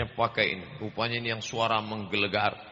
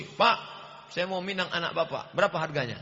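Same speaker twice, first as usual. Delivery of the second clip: cheeky suitor; 5 semitones higher than usual. Retold or imitated. Rude suitor asks the price.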